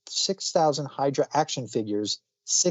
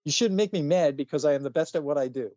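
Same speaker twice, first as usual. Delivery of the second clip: cartoon character; 3 semitones higher than usual. Telling how the Wolverine kid rants like a cartoon character, hammed-up. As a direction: ham up a cartoon tough guy who's getting mad. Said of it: "this is probably supposed to be like a, like a cartoon character".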